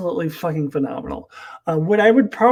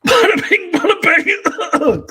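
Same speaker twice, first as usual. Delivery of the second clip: much higher, slow hammed-up bada bing; goofy mobster bit; 8 dB louder, slower than usual. Mocking heist storylines as a goofy much higher gangster voice. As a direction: sing it out like a cartoon gangster.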